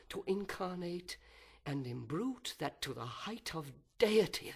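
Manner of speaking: a proud fallen angel brooding aloud, swinging from whispers to outbursts; fallen angel's soliloquy. Acted. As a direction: seethe with envy and wounded pride, then spit out the vengeance.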